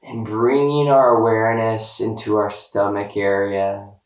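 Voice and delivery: slow, calm body-scan guidance with long pauses; guided meditation. Real, not acted. Guide leading listeners through a body scan, calm meditation voice.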